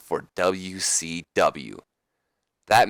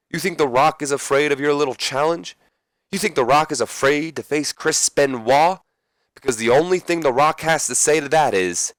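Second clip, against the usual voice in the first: higher, bold Rock taunt; Rock impression; 6 semitones higher than usual. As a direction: hype up the challenge like The Rock. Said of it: "My Rock accent's not the best today".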